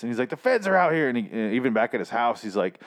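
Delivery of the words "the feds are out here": half-hammed paranoid shout; mock yelling. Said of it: "yelling about the feds".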